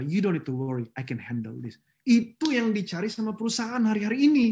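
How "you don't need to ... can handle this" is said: reassuring reply. Retold or imitated. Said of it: "Dalam arti apa".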